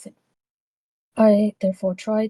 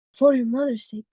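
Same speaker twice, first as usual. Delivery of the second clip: put-on Spanish accent; 4 semitones higher than usual. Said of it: "came out with Spanish accent".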